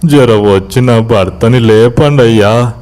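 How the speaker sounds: slow, plaintive acted begging; desperate pleading. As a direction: drag out the words in tearful entreaty. Wife begs at their feet.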